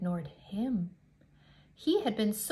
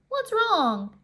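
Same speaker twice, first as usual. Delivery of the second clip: higher, louder worried ask; anxious question; 8 semitones higher, 7 dB louder than usual. Acted. Skinny fish asks worried Rainbow Fish, higher and louder. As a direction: ask as if alarmed.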